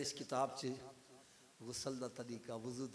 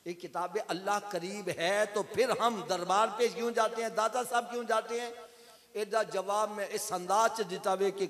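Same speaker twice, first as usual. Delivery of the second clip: higher-pitched, energetic sermon pitch; animated preaching; 5 semitones higher, 6 dB louder than usual. Acted. Preacher promoting his books to the congregation, animated. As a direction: sell each book to the crowd.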